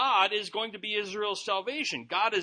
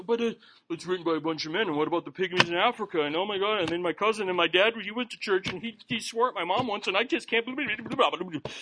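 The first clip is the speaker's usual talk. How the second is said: fast, tumbling mock excuses; rambling excuses. A doubter piles up excuses against faith, fast and rambling. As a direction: rattle off a doubter's excuses quickly.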